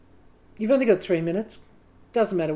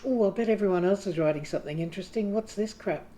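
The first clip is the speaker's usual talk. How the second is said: jealous inner critic; 3 dB quieter than usual. Retold or imitated. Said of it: "the voice that goes".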